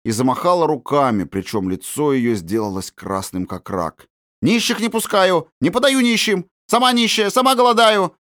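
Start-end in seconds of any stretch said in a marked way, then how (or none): 4.4-8.1 high, louder shrieking woman; shrill panicked shriek, much higher and louder; hysterical shout. Acted. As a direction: screech her refusal at the beggar children. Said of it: "закричала она".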